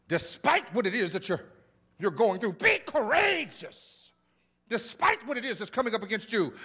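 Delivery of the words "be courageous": "Be courageous" drawn out slowly and higher; slow preached emphasis. Shown as a demonstration. Pastor repeating the verse to the church, slow and higher. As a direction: preach "Be" hard, stretch "courageous". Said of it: "Watch this".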